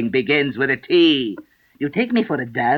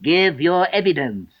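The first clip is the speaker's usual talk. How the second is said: higher, slow angry royal order; angry King; 6 semitones higher than usual. Acted. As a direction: demand it with stern displeasure. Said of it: "The king repeated angrily".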